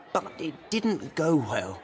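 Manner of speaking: chuckling at a friend's bad date; amused chuckle. Harry chuckling about the bad party date.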